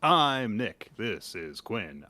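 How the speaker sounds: slow, measured anchorman delivery; newscaster voice. Pretend. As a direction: announce it like the evening news. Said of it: "I'm doing a newscaster voice".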